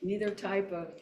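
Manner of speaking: measured reading of a mission statement; formal read-aloud. Acted. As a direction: read it out evenly, phrase by phrase.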